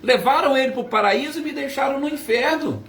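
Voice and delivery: agudo e apressado, acusação de mãe; revolta desesperada imitada. Retold or imitated. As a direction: encene a mãe revoltada, acusando em tom alto e rápido. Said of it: "como foi a expressão dela". (revolta de mãe, encenada)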